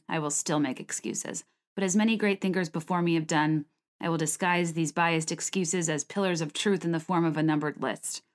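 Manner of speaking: steady, fluent read-aloud of a personal blog post; scripted personal essay read; reading own essay. Real, not acted. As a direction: read it straight off the page, running through long sentences.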